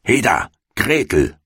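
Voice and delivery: lightly acted impatient call. A narrator's reading. Witch summons the girl to work, calling out. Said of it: "rief sie dem Mädchen zu".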